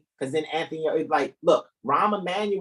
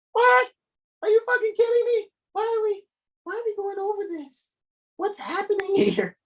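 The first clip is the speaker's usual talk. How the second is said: mock outrage. Host shrieking in mock outrage and laughing at the documents. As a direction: shriek it high and crack into a laugh.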